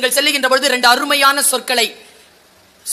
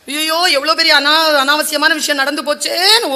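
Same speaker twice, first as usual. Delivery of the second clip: mock wailing; 3 semitones higher than usual. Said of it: "ஓன்னு அழறாங்க".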